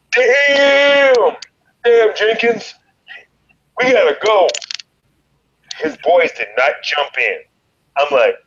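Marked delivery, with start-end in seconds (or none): 0.1-4.5 stunned shout. Retold or imitated. Telling how his friend knocked a guy out, high stunned yell. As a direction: yell it in disbelief, then hurry off.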